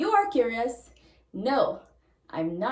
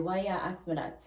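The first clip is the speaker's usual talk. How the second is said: Jamaican patois; 3 semitones lower, 5 dB quieter, faster than usual. Shown as a demonstration. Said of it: "So they'll ask you why".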